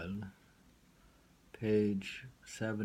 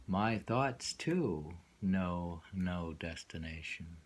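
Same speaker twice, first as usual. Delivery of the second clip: slow, lingering recital; slow poem reading; slower than usual. Acted. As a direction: draw out each line of the verse. Reads a poem aloud.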